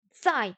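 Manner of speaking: "Tsai" in Mandarin fourth tone. Shown as a demonstration. Learner checking the word for place, fourth tone on "Tsai". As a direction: give "Tsai" a falling tone. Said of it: "quatrième ton".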